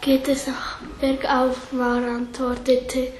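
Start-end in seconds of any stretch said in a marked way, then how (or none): 0.0-1.7 half-whispered, worn out from the climb; drained uphill moan; weary groaning question. Acted. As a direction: ask it breathless and tired. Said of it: "Lia stöhnte".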